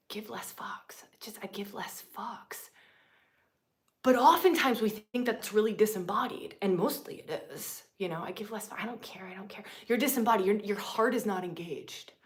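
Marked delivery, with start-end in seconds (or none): 0.1-2.7 unvoiced whispered line; hushed quote of an old saying. 8.2-9.6 mock whisper. Quoting detached attitude.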